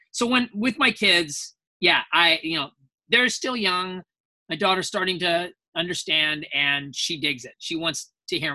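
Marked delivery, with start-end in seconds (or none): none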